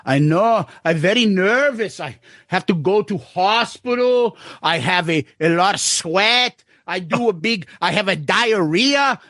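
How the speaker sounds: put-on light Brazilian accent, nervous broken English; playing the sweating Brazilian client in a Brazilian accent. Mimicking his client at the hearing, in a Brazilian accent. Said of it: "I'm doing this accent 'cause he literally talks like this".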